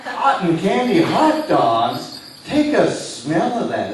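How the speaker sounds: slow, laughing disbelief; amused stage disbelief. Real, not acted. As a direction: laugh through the question. Hypnotist laughs at answer.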